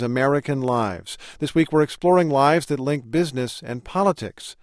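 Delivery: polished presenter introducing a story; radio feature narration. Real, not acted. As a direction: narrate it like a public-radio host.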